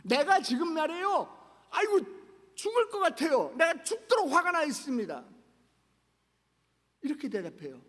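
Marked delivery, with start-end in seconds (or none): 0.0-5.2 high, loud, fed-up whine; annoyed and exasperated, pitched up and louder; irritated grumbling. Retold or imitated. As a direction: snap back in an annoyed, sulky voice. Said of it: "아주 짜증 섞인 목소리로 성질을 내면서".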